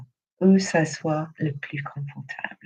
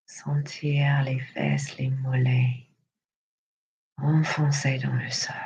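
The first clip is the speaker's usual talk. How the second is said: guided meditation. Acted. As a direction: lead them gently through breath and body, unhurried. Leads breathing and body relaxation.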